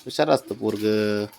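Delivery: tender praise. Real, not acted. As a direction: praise the little one softly and low. Softly praising the child. (हळू, लाडाने कौतुक)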